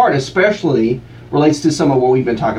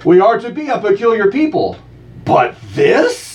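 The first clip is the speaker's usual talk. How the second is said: slogan read; 5 semitones higher than usual. Acted. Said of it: "let's try this one".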